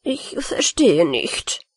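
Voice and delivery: slow, wounded and offended; sulking, hurt pride; offended rat, slow and hurt; deeply hurt. Acted. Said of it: "sprach die Ratte also sehr gekränkt".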